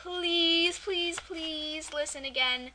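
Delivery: slow, drawn-out begging whine; pleading whine. Acted. Podcast host begging listeners to come back, whining. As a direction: whine it, stretching out each please. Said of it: "You sound like a whining girl".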